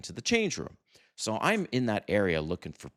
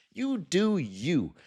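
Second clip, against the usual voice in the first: mock airy voice; 9 semitones higher, much slower than usual. High slow far voice.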